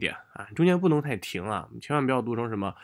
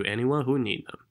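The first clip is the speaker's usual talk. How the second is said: "anyone" given the main weight; stress on ANYONE. Shown as a demonstration. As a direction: lean on "anyone", then ease down. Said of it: "anyone重读".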